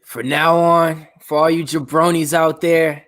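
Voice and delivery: wrestler promo voice. Pretend. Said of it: "How did you get a hold of that belt?".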